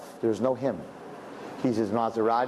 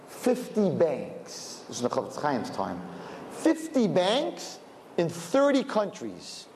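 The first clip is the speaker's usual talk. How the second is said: smug boast; 5 semitones higher than usual. Retold or imitated. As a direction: savour each word like a proud rich man. Rich man boasting to sage.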